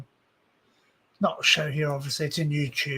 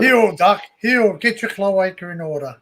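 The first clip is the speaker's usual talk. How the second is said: mock dog command; 6 dB louder than usual.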